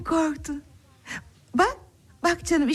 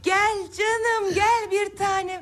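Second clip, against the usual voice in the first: tender encouragement; 6 semitones higher, slower than usual. Acted. Encouraging child's first steps.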